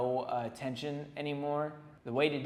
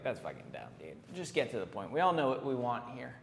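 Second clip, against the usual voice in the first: blunt dismissive; 3 semitones lower than usual. Retold or imitated. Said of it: "I'm gonna be like".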